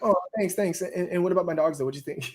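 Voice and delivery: mock genuine thanks. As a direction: play back an eager, sincere thanks. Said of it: "I love how genuine it is".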